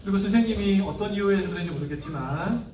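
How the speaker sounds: put-on soft, hushed prayer with the child; gentle prayer. Shown as a demonstration. Parent praying beside upset child, soft and gentle. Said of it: "하고 풀어줘야 돼요".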